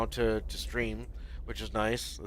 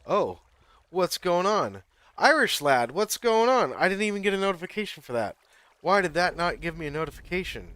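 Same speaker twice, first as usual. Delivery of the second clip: loud, high burst of surprised greeting; surpresa animada; 8 semitones higher, 7 dB louder than usual. Real, not acted. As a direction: excitedly caught off guard, voice jumping up. Greets viewer who turned up unannounced.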